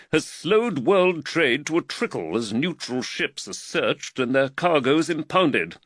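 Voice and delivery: lightly voiced magistrate warming to his theme; Reed lecturing Lavender on the crisis, animated. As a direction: build him up as he gets carried away.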